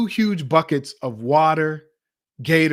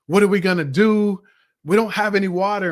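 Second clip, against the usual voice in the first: higher, louder mock-panicked cry; retold panic; 5 semitones higher, 4 dB louder than usual. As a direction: replay the group's panic, lightly acted. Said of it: "We all start to panic and freak out".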